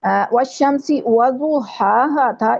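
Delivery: slow, careful Quranic recitation of والشمسی وضحاہا; correct recitation. Shown as a demonstration. Teacher reciting the verse for her students, slow and careful. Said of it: "اس کو ودوہاہا پڑھا".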